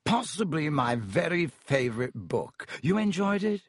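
Lockhart voice. Acted. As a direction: savour the title vainly.

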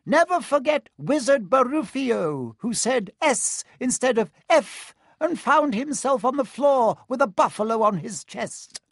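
high squeaky little professor; squeaky Flitwick. Acted. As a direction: squeak it out, tiny and eager. Flitwick continues teaching.

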